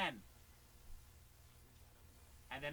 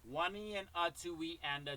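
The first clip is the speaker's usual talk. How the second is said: steady count. Shown as a demonstration. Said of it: "don't go too fast".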